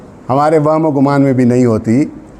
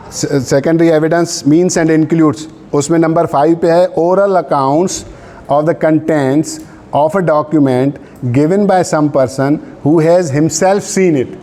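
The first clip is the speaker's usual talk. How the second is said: reads the law out word by word, very slow; measured legal dictation; slow dictation reading; much slower than usual. Acted. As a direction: dictate so students can write it down. Rereading statute for the class.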